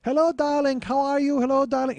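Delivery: high, loud gushing "Hello, darling"; posh hostess voice. Retold or imitated. Hostess greeting guests down the staircase, high and gushing. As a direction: sing out a grand socialite greeting. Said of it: "I hear her voice".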